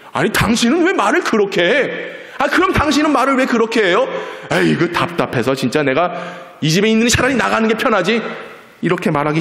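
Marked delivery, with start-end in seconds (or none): 0.1-4.1 high, indignant acted squabble; bickering spouses. Husband and wife quarrelling over tone, accusing. 4.5-8.2 mildly exasperated grumbling, rising in pitch; fed-up spouse. Acted. Spouse threatening to leave mid-quarrel, exasperated.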